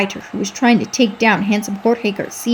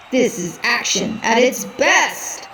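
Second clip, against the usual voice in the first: whoop; 2 semitones higher, slower than usual. Acted. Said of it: "the announcer whooped".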